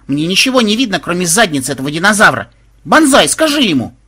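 high, loud indignant whine; yelled complaint. A narrator's reading. Granddaughter cannot see past the dragon, high yelling. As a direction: wail it in exasperation. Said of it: "завопила внучка".

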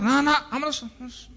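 high, urgent husband hurrying his wife along; impatient husband. Acted. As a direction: play an over-eager man pressing her. (marido apurado e insistente, voz aguda)

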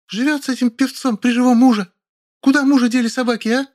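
very high, loud tirade; screeching accusation. A narrator's reading. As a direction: hurl it at them. Woman screams accusations. (визгливая тирада)

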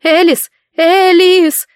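high, loud call of a name; mother shouting after. Acted. Mother shouts after her running daughter, loud and high. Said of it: "кричала вслед мама".

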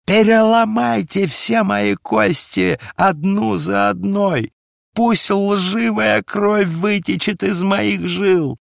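high, loud, slow desperate outcry; anguished shout. A narrator's reading. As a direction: scream out your guilt in agony. Peter begs for torture. (громкий отчаянный вопль, высоко и медленно)

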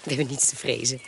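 quick low whisper to her partner; hushed. Acted. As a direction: whisper so the gendarmes don't hear. Hushed reply near watching gendarmes.

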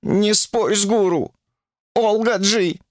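high, slightly slow caution; cautious interjection. Acted. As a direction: warn her carefully. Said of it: "осторожно вставил своё слово". (осторожно предостерегая)

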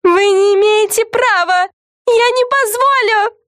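высокий, протяжный возмущённый визг. A narrator's reading. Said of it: "завизжала главная Карен". (возмущённо визжать)

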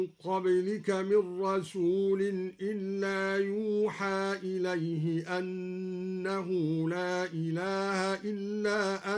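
يوحى with damma on ya and open ha, slow chant; yuha passive reading. Shown as a demonstration. Reciter demonstrating Duri reading, slow chanted يوحى. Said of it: "مبنيا للمجهول أيضًا هكذا".

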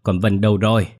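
put-on shrill old woman hurling curses; angry cursing. Grandmother cursing her daughter-in-law from the bedroom.

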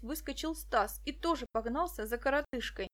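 plain reading voice

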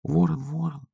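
soft, high hushed call; whispered call. A narrator's reading. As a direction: call him softly, half asleep. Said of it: "прошептал поросёнок".

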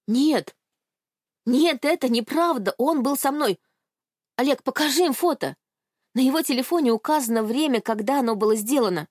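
desperate protest. Acted. Girl pleads with the men to believe her, frantic. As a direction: insist frantically nobody listens.

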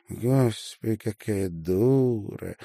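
mocking smirk. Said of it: "усмехнулась Марина".

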